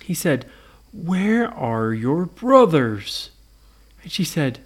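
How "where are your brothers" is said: slow, drawn-out monster question; lumbering monster voice; Frankenstein. Acted. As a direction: ask it ponderously, word by word.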